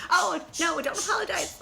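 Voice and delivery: high, loud playful protest; mock reassurance. Mom voices her daughter brushing off the apology, high and playful. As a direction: wave the apology away in a sing-song high voice.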